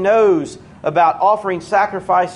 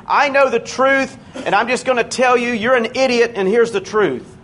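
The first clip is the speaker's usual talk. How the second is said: higher-pitched mock know-it-all bluntness; blunt and rude; 6 semitones higher than usual. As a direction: act out tactless truth-telling. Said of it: "to the point and rude to them".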